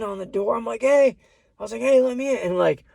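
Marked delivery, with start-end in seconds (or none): 0.8-1.2 shouting. Retold or imitated. Banging on the locked door. 1.8-2.4 shouting. Retold or imitated. Banging on the locked door.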